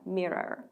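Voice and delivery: soft, low "Mirror" with the final R drawn back; R pulled back. Shown as a demonstration. Teacher modelling it for students, tongue pulled back on "Mirror". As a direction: hold the English R to the end of "Mirror". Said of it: "끝까지 뒤로 당겨주시면 됩니다".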